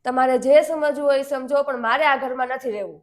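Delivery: wife's loud defiant retort to husband. Acted. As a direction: throw it back at him. Wife snaps back at husband.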